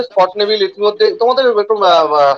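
echoing call audio; cathedral echo. Real, not acted. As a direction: voice bouncing back with echo. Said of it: "ইকো হচ্ছে আবার".

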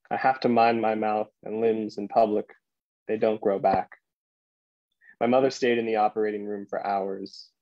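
measured poem recital with deliberate pauses; poetry reading. Acted. Poet reading "To the Octopus" to a library audience, measured recital. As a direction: read it line by line, letting each image land.

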